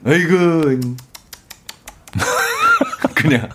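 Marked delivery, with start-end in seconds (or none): 0.1-0.8 mock scornful "ugh" grunt; disapproving sigh. Husband criticising TV girl groups before his wife, feigned disapproval. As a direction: let out a token tut of blame. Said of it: "저는 무조건 비난합니다".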